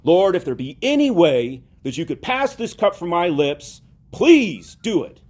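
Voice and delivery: pleading prayer that climbs high and loud on please, slowing down; crying out in prayer. Retold or imitated. Christ in Gethsemane begging the Father, a pleading cry. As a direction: beg the Father to take the cup away, please drawn out. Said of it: "crying out to him".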